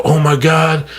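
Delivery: high, showy bragging voice, pitched well up; mock bragging. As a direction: ham up a show-off posting about his good deeds. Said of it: "So what I would do is I go".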